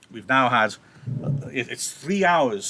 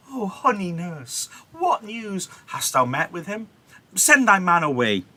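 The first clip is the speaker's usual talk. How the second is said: higher, eager coaxing voice; sweet-talking Juliet; 7 semitones higher, 4 dB louder than usual. Acted. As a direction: greet the nurse with sudden sweetness. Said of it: "Juliet quickly changing".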